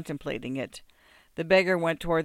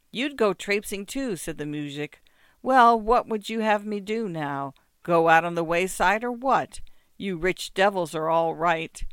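higher, resentful grumble; grumbling muzhik; 3 semitones higher, 5 dB louder than usual. Acted. Muzhik resenting the rich mistress, a touch louder. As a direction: sneer at the rich.

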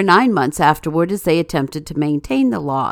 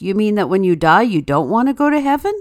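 fast, rising aghast question; mildly shocked, disbelieving priest; 3 semitones higher, faster than usual. Acted. Priest questions the unwilling man, aghast. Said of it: "The priest is aghast".

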